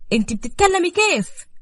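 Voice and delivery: high-pitched shocked question; stunned, fearful. A narrator's reading. Roqaya backing away from Zahra, stunned. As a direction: recoil in disbelief as you ask. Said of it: "رجعت لورا بخوف وبصت بذهول".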